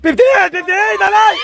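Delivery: high, urgent number call; excited shout. Real, not acted. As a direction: shout it out to grandma. Shouting the called number to Nanay. (pasigaw at sabik)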